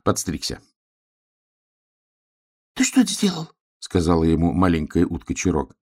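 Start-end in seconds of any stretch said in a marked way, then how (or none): 2.7-3.5 duck voice. Acted. Utka Chirok voiced in story.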